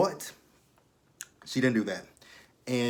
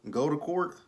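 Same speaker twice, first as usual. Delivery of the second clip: incredulous; 5 semitones higher than usual. Real, not acted. Mocking the cops' advice.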